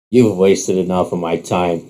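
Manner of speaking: dismissive rival. Acted. Rival turns away from Rook's bet, dismissive. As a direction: brush him off.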